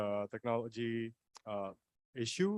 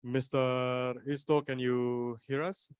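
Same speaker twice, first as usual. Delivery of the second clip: slow, drawn-out call; slower than usual. Real, not acted. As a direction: call out slowly to someone who may not hear. Host calls to lost speaker.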